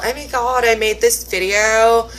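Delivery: mildly gushing imitation of excitement; excited beginner, lightly acted; mock excited. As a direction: play up a beginner's giddy pride, lightly. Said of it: "very excited style".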